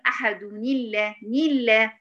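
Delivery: أحد نيلة as ahaduni-llah, then ni-llah alone; noon linked with kasra. Shown as a demonstration. Teacher explaining why the n moves, أحد نيلة linked with kasra. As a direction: link أحد نيلة with a clear i after n, repeat نيلة. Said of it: "ليه حركت النون الساكنة دي بالكسر".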